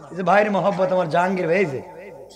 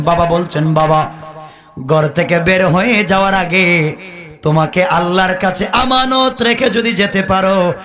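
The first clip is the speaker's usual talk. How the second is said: melodic preaching; 3 dB louder than usual. Real, not acted. Preacher telling the crowd a desert tale, chanted. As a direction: chant the tale, stretching phrase endings.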